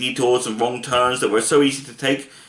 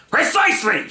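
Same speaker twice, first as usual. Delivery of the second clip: higher, sharp shout; 8 semitones higher than usual. A narrator's reading. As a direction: snap out the word. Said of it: "shouted the dog".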